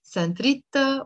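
"Ana nidra la Saint Rita" said slowly, word by word; slow phrase demo. Shown as a demonstration. Teacher slowing the vow phrase down for students to repeat. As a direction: spell it out slowly for the learners. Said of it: "So, "Ana nidr," or".

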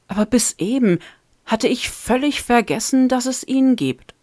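bubbling over with the news; excited Sarah. Acted.

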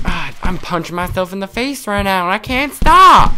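high-pitched wail climbing to a yell; mock panic. Character punching himself, unable to stop.

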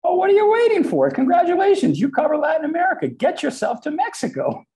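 high, loud, emphatic boss; Mike Bloomberg. Retold or imitated. Boss sending employee off to cover Latin America, loud and emphatic. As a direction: imitate a boss giving brisk marching orders. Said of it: "and he said".

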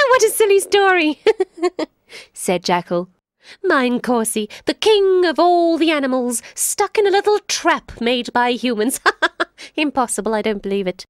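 high, laughing disbelief; mocking jackal. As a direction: tease the king sweetly. Jackal mocks story.

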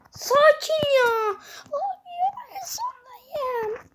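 slow, high laugh-crying whine; laughing through the frustration; laughing despair. Real, not acted. Gamer telling viewers he's last, slow laughing whine.

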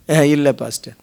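hesitant, low, soft reply; sheepish admission. Acted. Believer confesses to pastor he never read it through, acted sheepish. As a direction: play a believer caught out, answering quietly.

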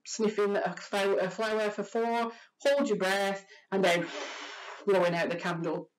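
slow, drawn-out breathing demo; slow breath counting. Shown as a demonstration. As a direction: pace it like a calm breath. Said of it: "reframe that as sniffing a flower".

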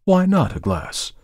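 high, slow indignant protest; indignant cry. A narrator's reading. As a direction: fire it back in disbelief. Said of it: "cried the dealer".

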